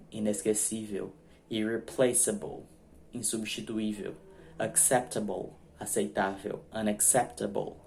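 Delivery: ordinary delivery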